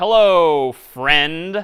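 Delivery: sarcastic delivery. Showing how a printed greeting might sound: sarcastic tone. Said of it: "maybe I'm being a little sarcastic here".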